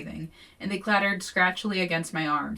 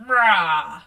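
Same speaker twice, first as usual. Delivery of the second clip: louder short mock roar; 9 dB louder than usual. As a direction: let out a fake battle roar. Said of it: "is like".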